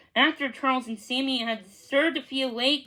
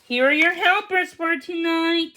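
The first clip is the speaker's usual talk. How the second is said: announcing; 4 semitones higher, 4 dB louder than usual. Acted. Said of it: "he announced".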